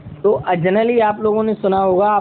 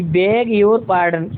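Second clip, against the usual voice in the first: very slow, each word drawn out; slow teaching demo at normal level; slow model phrase; much slower than usual. Shown as a demonstration. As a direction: spell it out slowly for the class. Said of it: "ये sentence बोल सकते हैं".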